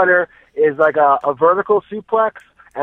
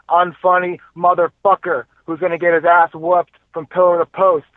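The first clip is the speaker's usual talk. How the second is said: cocky trash-talk promo, slightly raised; wrestling promo. Pretend. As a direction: taunt your rival like a heel wrestler. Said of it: "to cut a promo at my expense".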